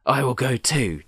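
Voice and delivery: lightly voiced eager scarecrow. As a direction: declare it brightly as the scarecrow. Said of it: "declared the Scarecrow".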